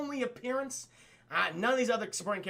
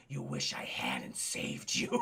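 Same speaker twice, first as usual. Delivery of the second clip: very low, slow Batman-like line; sarcastic; 6 dB quieter, slower than usual. Retold or imitated. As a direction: deliver it slowly in a dark hero voice. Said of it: "a little bit of a sarcastic line".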